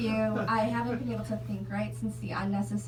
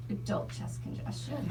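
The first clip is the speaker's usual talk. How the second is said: "adult chest congestion" breathed out softer, voiceless; hushed; 6 dB quieter than usual. Shown as a demonstration. Reading the adult bottle label aloud, in a hush.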